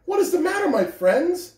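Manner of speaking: high, gentle little engine; little blue engine kindly asks the toys, high; kindly asked. A narrator's reading. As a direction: ask with care. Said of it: "she asked kindly".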